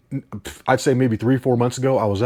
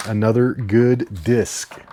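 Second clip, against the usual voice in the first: slow drawn-out; much slower than usual. Shown as a demonstration.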